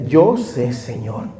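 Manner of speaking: rising, pleading cry to the Lord; retold tearful prayer. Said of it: "me arrodillaba y decía".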